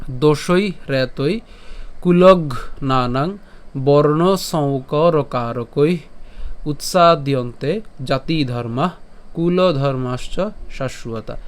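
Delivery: slow, measured Sanskrit recitation; verse recitation. Shown as a demonstration. Teacher introduces today's shloka to learners, slow recitation. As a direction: recite it slowly, phrase by phrase with pauses. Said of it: "শ্লোকটি আরেকবার বলি".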